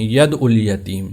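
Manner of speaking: ید الیتیم as quick "yad-ul-yateem"; ید الیتیم with shadda dropped; common mispronunciation. Shown as a demonstration. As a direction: say ید الیتیم without the heavy ain. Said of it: "وہ اس کو ید ال پڑھتے".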